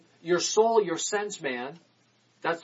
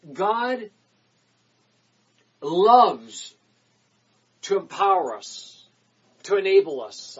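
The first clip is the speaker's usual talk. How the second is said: preaching shout; 6 dB louder than usual. Real, not acted. Sermon climax.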